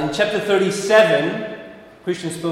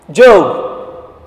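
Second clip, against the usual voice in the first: higher and louder, pleading questions repeated; God questioning Job; 5 semitones higher, 8 dB louder than usual. Retold or imitated. God asks Job why he doubts, louder and pleading. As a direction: press each question home like a voice from heaven.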